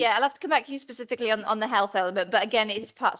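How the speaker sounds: talking round a mint in mouth. Real, not acted. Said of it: "I've got a mint in my mouth".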